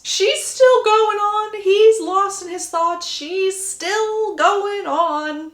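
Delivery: dramatic slow. A narrator's reading. Narrator's drawn-out dramatic repetition.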